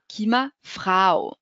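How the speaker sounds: فراو drawn out very slowly with an ow sound; فراو said like frow, the German Frau. Shown as a demonstration. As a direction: stretch the ow in فراو. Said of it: "عبارة آو".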